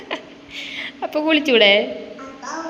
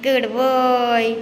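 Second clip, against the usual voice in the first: slow praise; much slower than usual. Real, not acted. Praising toddler slowly.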